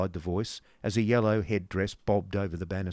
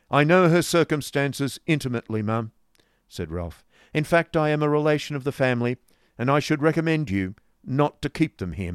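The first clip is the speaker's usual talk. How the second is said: put-on louder, brusque old moneylender; stern businessman; 7 semitones higher, 6 dB louder than usual. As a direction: lay it down hard and brusque. Ralph voiced through dialogue.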